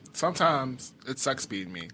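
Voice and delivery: slow, soft, through laughter; laughing. Real, not acted. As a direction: laugh it out slowly, quietly. Laughing self-pity.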